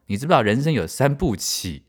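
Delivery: 三步棋 said for 三部曲 in Taiwanese Mandarin, qǔ turned to qí; Taiwanese-accented Mandarin. Retold or imitated. Mimicking the doctor asking about life, Taiwanese Mandarin. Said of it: "因为他有一点台湾国语".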